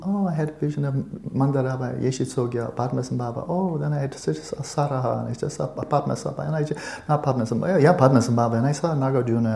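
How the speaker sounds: high-pitched mock toddler; two-year-old kid. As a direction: rattle off names like an excited little child. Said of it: "Age two".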